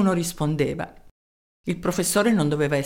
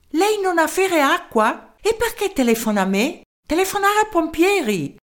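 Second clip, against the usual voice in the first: a tiny German professor in broken Italian; small German-accented voice; 10 semitones higher than usual. Acted. Professor answering the mayor's call, small German-accented voice. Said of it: "Una vocina dal tipico accento tedesco".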